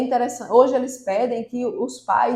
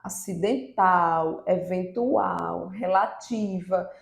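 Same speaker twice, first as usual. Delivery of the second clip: slow term list; 3 semitones lower, much slower than usual. Shown as a demonstration. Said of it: "pode ser chamada de proparoxítona".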